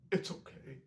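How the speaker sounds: whispered imitation of a soothing line; hushed reassurance. Fan retelling Captain Clark's scene, hushed reassurance. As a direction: murmur it voicelessly, imitating gentle comfort.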